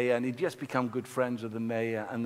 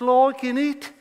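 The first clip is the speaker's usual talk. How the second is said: very high, loud Black Country innit; Black Country accent; 13 semitones higher, 7 dB louder than usual. Retold or imitated. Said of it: "one of these kind of accents".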